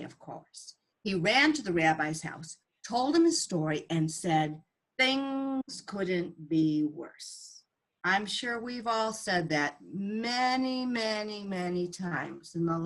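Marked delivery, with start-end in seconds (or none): 5.0-7.6 a man at the end of his rope, very slow; weary despair. Acted. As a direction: drag it out slowly, defeated.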